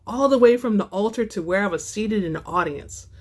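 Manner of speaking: steady first-person novel reading; story narration. A narrator's reading. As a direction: read the chapter aloud like an audiobook. Author reads her novel excerpt.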